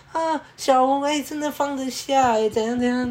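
high, delighted exclaim; happy excited boss. Retold or imitated. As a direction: run in thrilled with the news. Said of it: "很开心跑过来说". (老板兴奋地高声说)

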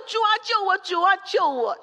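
high, loud frantic plea building to a cry; hammed-up frantic shout of Peter sinking; desperate cry for help. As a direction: cry out like a drowning man begging the Lord. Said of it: "大力的拼命喊说".

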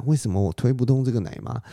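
surprised question. Acted. 然后他就很惊讶.

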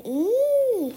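high, loud surprised squeak; a sudden startled yelp; 咦 squeaked high in surprise; surprised eek. Acted. Door opens unexpectedly.

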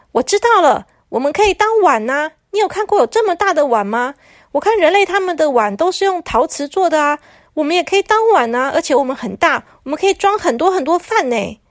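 a hint of an excited toilet; eager toilet. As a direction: pitch the idea brightly to the others. Toilet proposes being bowls.

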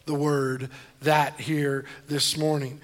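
slow, with "that" leaned on hard; stress on that. Shown as a demonstration. Pastor to congregation, slow and pressing on "that". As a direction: linger on "that" to land the point. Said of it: "I wanna emphasize".

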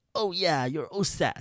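slow, easygoing officer voice; lightly voiced relaxed American guard; casual buddy tone. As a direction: wave them through like an old pal. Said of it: "以一种就是巴蒂巴蒂的方式".

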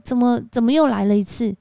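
exasperated scolding. Retold or imitated. Seminary dean scolding the student, mock exasperated.

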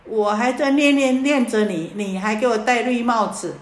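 a husband catching his wife, furious; angry husband. Retold or imitated. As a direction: spit it out like a cuckolded husband. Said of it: "好生气啊".

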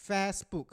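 FACEBOOK with the first vowel as in 'ass'; imitated mispronunciation. Host echoing co-host's mistake, FACEBOOK mispronounced as 'Fassbook'. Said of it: "你刚刚念是Facebook".

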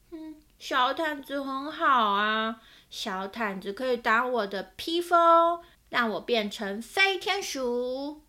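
a hint of a small boy, slow and loud; lightly voiced child insisting, drawn out; child Owen pleading. Owen telling his parents the blanket is his cape, slow and insistent.

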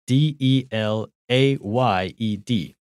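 letters of delayed said one by one, slowly; spelling it out. Shown as a demonstration. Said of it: "Duncan帮我拼一下delayed".

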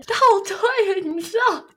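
high, loud "倒退" in disbelief; can you believe it; incredulous. Real, not acted. Telling her friend she went backwards, incredulous. Laughing dismay at going backwards.

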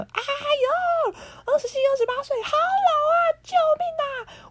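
high, hammed-up crying whine; shrieking in mock despair at being old; mock wail. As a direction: wail it like a melodramatic teen. Teen self dreading age 27.

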